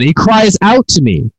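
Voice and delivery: mild yell. Acted. Preacher repeating God's yelled words, mild emphatic yell. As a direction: declare it high and firmly, short of shouting. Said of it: "He yells again".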